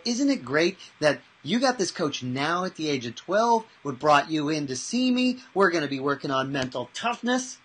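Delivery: building excitement; mild hype. Retold or imitated. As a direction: rise into an upbeat sell. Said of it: "I go".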